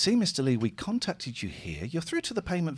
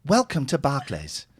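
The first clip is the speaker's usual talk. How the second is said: robotic call-centre recording; automated phone voice. Acted. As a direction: read it like a recorded bank message. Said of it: "this is an automated one".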